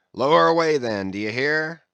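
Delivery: captain's thundering command; shouting. A narrator's reading. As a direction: bellow the order over the ship. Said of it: "shouting across the deck".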